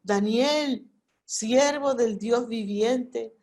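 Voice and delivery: a touch of sorrow, calling Daniel slowly; mildly mournful call to a friend in the pit; sad call. Acted. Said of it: "con voz triste". (llamada con un toque de tristeza)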